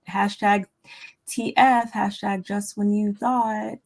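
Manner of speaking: reading the caption out slowly; slow, careful read of a caption; slow reading aloud. Real, not acted. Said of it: "what the caption say?".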